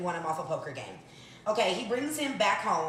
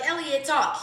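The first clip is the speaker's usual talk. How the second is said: commanding; 7 semitones higher, 4 dB louder than usual. Retold or imitated. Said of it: "She's like".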